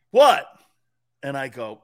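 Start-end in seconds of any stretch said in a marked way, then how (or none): 0.1-0.5 a loud, high, disbelieving what; incredulous shout. Retold or imitated. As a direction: throw the word back at him, exasperated. Repeating the question, louder.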